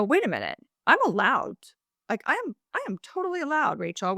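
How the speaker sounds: emphatic realization, pitch climbing and speeding up; mildly indignant standing up for oneself; dawning self-assertion. Retold or imitated. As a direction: assert it as a fresh discovery. Acts out her realization to the co-host.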